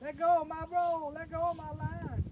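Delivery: high, thin, quiet mock complaint; softly squealed Karen impression; playful Karen voice. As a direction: whine at the fish like a put-on Karen. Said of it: "I went Karen on it".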